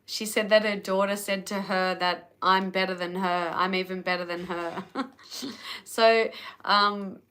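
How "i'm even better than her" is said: laughing through the words. Real, not acted. Proud of a client's compliment, laughing it out. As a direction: chuckle as you repeat the compliment.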